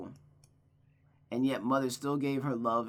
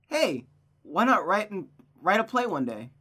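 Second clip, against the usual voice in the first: bright-idea pitch, raised and louder; eager young friend; 6 semitones higher, 5 dB louder than usual. Acted. Friend suggesting they write a play, eager.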